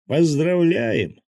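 crowd cheering. A narrator's reading. Crowd of friends greeting Anya.

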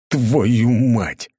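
a loud startled curse; shocked yell. A narrator's reading. Everyone yelling at the severed head, loud shock. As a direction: blurt it out in shock. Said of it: "Орали все".

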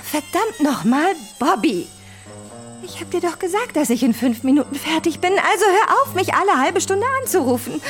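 high-pitched irritated telephone rant; exasperated scolding. Acted. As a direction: scold a nagging lover down the phone. Irritated row on the phone.

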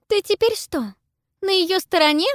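sharp, angry challenge. A narrator's reading. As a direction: snap it out angrily. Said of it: "зло бросает Пиппа".

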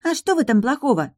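put-on high, pouting child's voice; sulky little girl. A narrator's reading. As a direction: sulk like a scolded girl. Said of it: "насупилась Гаэде". (высокий надутый детский голос)

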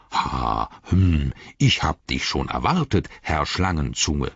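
deep, slow tree-giant voice; Treebeard. Acted. Treebeard greets the captured messenger in a deep, slow voice. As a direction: let the words rumble out low and unhurried. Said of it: "Dann sagte Baumbart".

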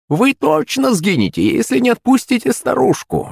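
grind out the threat like a hag; creaky witch threat. Acted. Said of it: "заскрипела зубами бабка".

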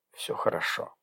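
soft, breathy sigh of relief; a whispered all-clear after a sigh; relieved whisper. Acted. Doctor relieved after exam.

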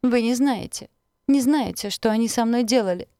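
high, loud tearful outburst; sobbing plea, pitch up; fake sobbing plea. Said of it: "Она добавила прерывистое рыдание". (притворные рыдания, высоко и громко)

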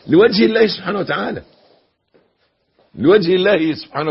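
emphatic preaching. Real, not acted. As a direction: press the central point on the congregation. Preaches the key point emphatically.

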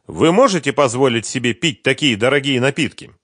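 put-on curious young woman; Sveta's voice. A narrator's reading. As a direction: voice the young singer, bright and lifted. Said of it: "сказала Света".

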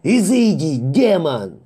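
high, loud, terrified sailor's howl; frantic wailing cry. Acted. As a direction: bellow it at the demon in panic. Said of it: "возопил матрос".

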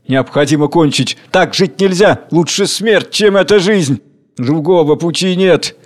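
high, urgent declamation; desperate outcry. Acted. Crowd declares to the king life is unbearable, urgent. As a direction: call out with desperate resolve.

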